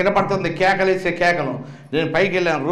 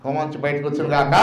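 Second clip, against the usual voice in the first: quick recap; 4 semitones lower, 4 dB quieter, faster than usual. Shown as a demonstration. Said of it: "నా వైపు చూడండి, వినండి జాగ్రత్త".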